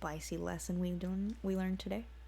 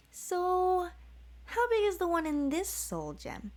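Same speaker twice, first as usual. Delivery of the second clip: put-on higher young voice, eager; young man asking; 10 semitones higher, 3 dB louder than usual. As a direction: ask like a curious boy. Boy voiced in read story.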